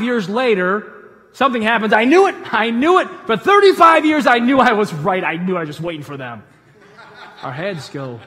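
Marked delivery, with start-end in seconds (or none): 1.9-6.4 triumphant gloating. Retold or imitated. Triumphant wife proven right.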